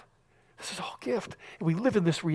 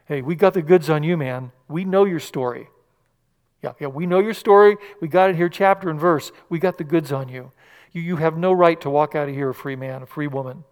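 prosecutor's accusation; 3 dB louder than usual. Acted. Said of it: "the prosecuting attorney".

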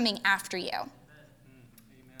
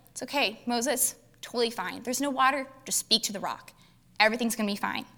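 gentle reassurance; 6 dB quieter than usual. Retold or imitated. God reassuring Moses, retold scene.

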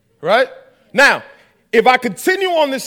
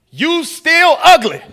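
higher, slow and louder jab; slow mocking taunt; 7 semitones higher, 5 dB louder, slower than usual. Johnny taunting his friend again, slow and mocking. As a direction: drag out the insult to sting.

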